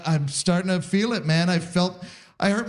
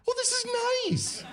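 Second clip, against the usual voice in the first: delighted sigh; 6 dB quieter than usual. Retold or imitated. Enjoying lying down at doctor.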